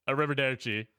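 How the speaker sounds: put-on hammy Italian accent. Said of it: "him speaking Italian".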